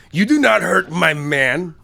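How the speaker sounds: a hint of Hispanic accent, slow; mock Hispanic accent. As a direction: warn a rival off in a lightly put-on Hispanic accent. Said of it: "almost Hispanic accent".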